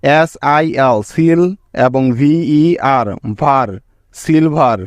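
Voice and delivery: careful slow sounding out; slow syllable breakdown. Shown as a demonstration. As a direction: spell each syllable slowly, then say it. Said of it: "কি কি syllable পেলাম দেখো".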